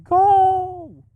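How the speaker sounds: sudden high yell at the car ahead; real frustrated shout at another driver. Real, not acted. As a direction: blast it out in pure frustration. Yelling at slow driver ahead.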